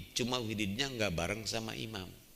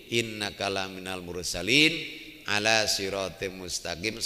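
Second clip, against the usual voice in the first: Quran recitation. Acted. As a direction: intone it as scripture.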